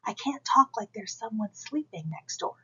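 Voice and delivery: talking as if someone sleeps next door; slightly hushed, held-back talk; voice kept down. Shown as a demonstration. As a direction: demonstrate a too-quiet speaking voice. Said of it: "not keep my voice down".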